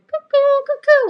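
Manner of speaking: high, loud cuckoo-clock call; mock cuckoo call. Voicing a skeptical viewer who thinks she's crazy, high loud cuckoo call. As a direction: sing it out like a cuckoo clock, mocking. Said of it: "I'm like".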